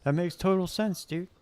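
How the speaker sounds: high-pitched yes-man going along; mock agreement. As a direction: nod along with exaggerated, put-on understanding. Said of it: "And everybody just nods".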